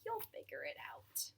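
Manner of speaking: low, soft hushed line; whispered. A narrator's reading. Parents whispering to sleeping daughter, low soft hush. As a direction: breathe it softly like a goodnight. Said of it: "They kissed her and whispered".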